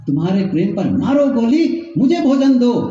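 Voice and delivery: mock fired-up husband. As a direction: build to an exasperated mock demand. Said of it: "वो भी fire हो गया". (झुंझलाए पति की हल्की नकल)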